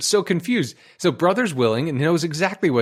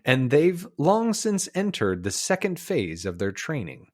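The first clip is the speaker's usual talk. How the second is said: measured documentary storyteller; nature film narration; 3 semitones lower than usual. Acted. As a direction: narrate it like an old wildlife film. Recites the film's narration.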